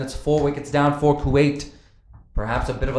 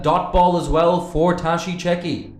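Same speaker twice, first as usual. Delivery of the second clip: high, loud wicket call; excited commentary; 7 semitones higher, 6 dB louder than usual. Real, not acted. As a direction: call the big wicket with a lift. Big wicket falls.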